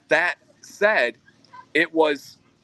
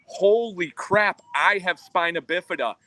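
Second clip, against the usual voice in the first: higher, drawn-out emphatic quote; all-caps exclamation; 5 semitones higher than usual. Retold or imitated. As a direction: imitate an astonished all-caps message, slowly and emphatically. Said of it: "Jesus in all caps goes".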